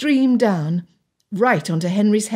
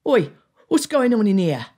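groom calling out; 3 semitones higher than usual. A narrator's reading. Groom to intruders in his stable, calling out. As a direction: call out as a suspicious stable groom. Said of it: "the groom's voice called".

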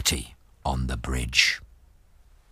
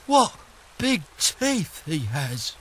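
goat voice; 13 semitones higher than usual. Acted. Goat gapes at troll.

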